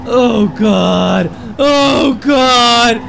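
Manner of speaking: from muttered to yelled oh God; rising panic. Real, not acted. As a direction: let the dread grow with each repeat. Panic building as the car goes wrong.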